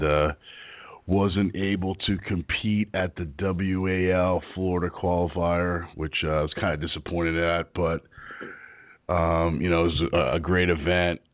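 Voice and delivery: hoarse from strep throat; a sore, roughened throat voice; rough voice. Real, not acted. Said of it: "sorry for my rough voice today".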